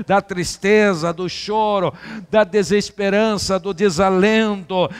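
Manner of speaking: fiery preacher; full-force preaching. Acted. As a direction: hammer each contrast home.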